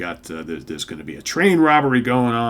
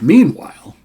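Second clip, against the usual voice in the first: high, loud announcer meanwhile; hammy meanwhile; 10 semitones higher, 12 dB louder than usual. Real, not acted. Reviewer mocking comic transitions, high and loud. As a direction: sing out the comic cliché.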